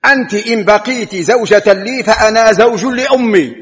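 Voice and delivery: retelling a husband's furious answer; angry reply. Retold or imitated. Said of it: "فأجابها زوجها في غضب".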